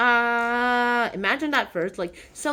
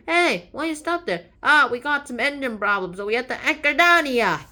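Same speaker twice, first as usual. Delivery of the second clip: higher, raised acted hail; calling out; 4 semitones higher, 6 dB louder than usual. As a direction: call across to another ship. Ships' crews call to each other.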